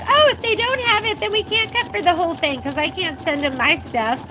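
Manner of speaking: high start easing back down, mild mock panic; mildly panicked, acted out; retold panic. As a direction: recount a little flurry of panic. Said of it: "I did start to panic".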